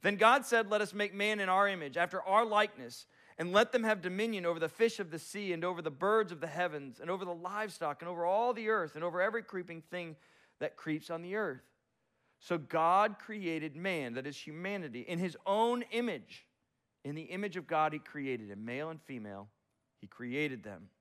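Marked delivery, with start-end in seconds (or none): 0.0-14.1 raised, resonant reading of God's words; solemn proclamation; scripture reading. Acted. Reading Genesis passage. 15.0-20.9 raised, resonant reading of God's words; solemn proclamation; scripture reading. Acted. Reading Genesis passage.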